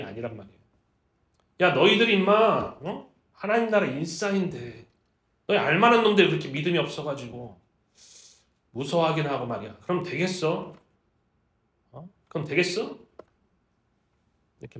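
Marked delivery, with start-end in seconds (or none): 1.6-13.0 mild, colloquial telling-off; mock scolding. Jesus chiding his insider disciples, mild scolding. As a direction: chide them like an exasperated teacher. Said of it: "믿음이 없다라고 혼을 내는".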